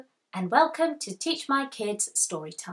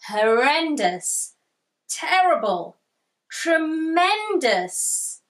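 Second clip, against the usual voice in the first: spooky storybook reading; 4 semitones higher, 4 dB louder than usual. Acted. Kipper reading a scary tale to Tiger, spooky.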